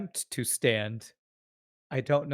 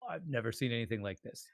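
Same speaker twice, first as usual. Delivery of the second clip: hushed awe; 9 dB quieter, faster than usual. Acted. Rev awed before beast.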